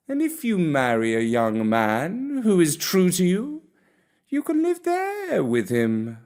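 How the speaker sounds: put-on kindly old cat. Gatsby voiced making offer.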